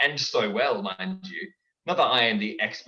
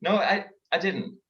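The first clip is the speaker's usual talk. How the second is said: cartoon voice; 6 semitones higher, 4 dB louder than usual. Voices argue in a skit.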